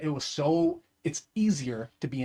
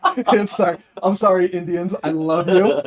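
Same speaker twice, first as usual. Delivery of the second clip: laughing; 3 semitones higher, 9 dB louder than usual. Real, not acted. Laughing apology to Indians.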